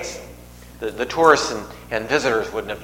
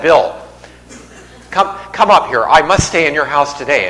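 mock summons; 3 semitones higher, 5 dB louder than usual. Preacher acts out summoning Bill to the front, mock commanding call. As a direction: call someone up out of the crowd.

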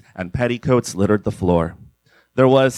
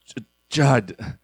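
rasped. A narrator's reading. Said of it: "Lewis rasped".

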